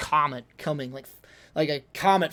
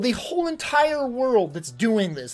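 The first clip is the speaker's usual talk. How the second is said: sarcastic yell; 4 dB louder than usual. Retold or imitated. Son re-enacting yelling at his dad, sarcastic. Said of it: "this is what I yelled".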